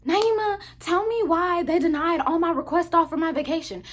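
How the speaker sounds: upset coworker. Retold or imitated. Coworker Raven complaining about denied vacation.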